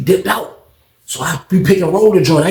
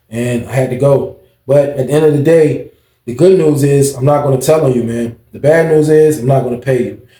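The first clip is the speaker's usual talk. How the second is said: lightly voiced letter writer, a bit lower; reading the letter in his voice; 4 semitones lower than usual. Man reading out a kite from the guy who ran off with his money, lightly voiced. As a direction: read it the way he'd say it, a touch lower. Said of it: "I gotta put it in his voice".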